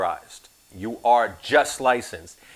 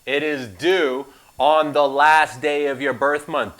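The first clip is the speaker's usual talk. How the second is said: "last day" slow and pointed, louder; sarcastic; 2 semitones higher, 5 dB louder, slower than usual. Shown as a demonstration. Instructor correcting a common test mistake, irritated. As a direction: lean on it with irritation. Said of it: "Do you hear the sarcasm being delivered".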